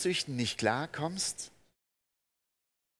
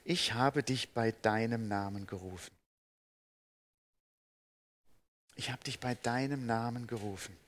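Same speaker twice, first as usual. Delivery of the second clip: gentle voice of God; 3 semitones lower than usual. Acted. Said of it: "Er sagt dann".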